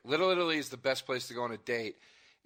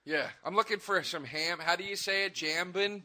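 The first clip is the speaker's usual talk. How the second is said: higher, clueless tourist mangling French; ignorant American tourist; 4 semitones higher than usual. Acted. Tourist asking the French for ham, lightly played cluelessness. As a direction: lightly play a tourist fumbling for the word. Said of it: "deliberately mispronounce one of their words".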